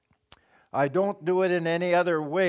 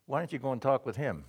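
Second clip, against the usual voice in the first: cheeky retort; 3 semitones lower, 6 dB quieter than usual. Retold or imitated. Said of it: "I say".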